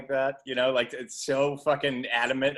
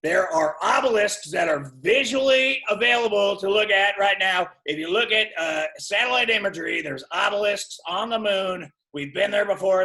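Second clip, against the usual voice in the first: raised, higher mock-paranoid rant; conspiracy rant; 5 semitones higher, 4 dB louder than usual. Pretend conspiracy theorist insisting on moon obelisks, raised rant. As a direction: lecture like a crank who knows the truth.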